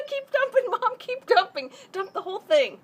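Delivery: laughing, shouting under cold water; in ice cold water. Real, not acted. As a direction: yell through the freezing shock. Ice water dumped on head.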